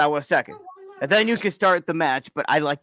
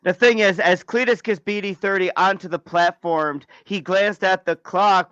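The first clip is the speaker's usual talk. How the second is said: wrestling commentary; 3 semitones higher than usual. Acted. Match commentary.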